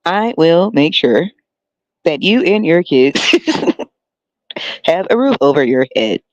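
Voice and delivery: mock campaign promise. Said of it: "This is how they make it sound".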